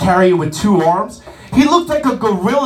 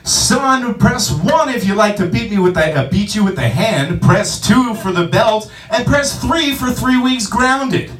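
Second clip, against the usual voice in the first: movie phone dad. Pretend. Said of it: "imagine if that guy was your dad".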